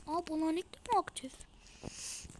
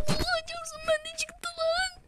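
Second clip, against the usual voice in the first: whispered, high disbelief; awed whisper; 13 semitones higher than usual. Real, not acted. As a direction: whisper it in awe. Still awed by the pull. (hayretle fısıldayarak)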